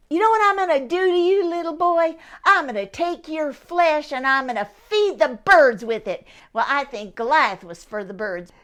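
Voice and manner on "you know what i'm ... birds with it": menacing giant threat. Acted. Goliath threatens David.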